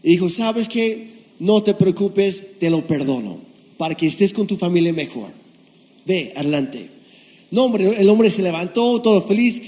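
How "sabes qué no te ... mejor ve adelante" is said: rey compasivo. Acted. Rey perdona con compasión.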